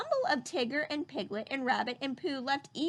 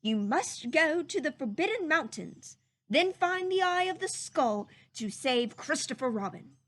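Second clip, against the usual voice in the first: warning; 2 semitones higher than usual. Acted. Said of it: "he warned them".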